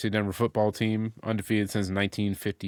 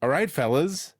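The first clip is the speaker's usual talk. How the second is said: lightly raised, theatrical roll call with pauses; song intro roll call; 3 semitones higher than usual. Retold or imitated. Co-host imitating the song's intro, rising roll call. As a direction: call each bandmate, leaving gaps for answers.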